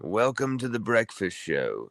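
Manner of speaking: put-on a weak stab at a British accent; faint mock British accent; attempted British accent. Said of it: "that's how it would be if I could do a British accent".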